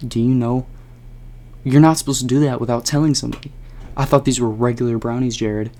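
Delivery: fast, rushing reproach; exasperated scolding. Retold or imitated. To Jared for spiking brownies, fast exasperated scolding. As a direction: tell him off, fed up.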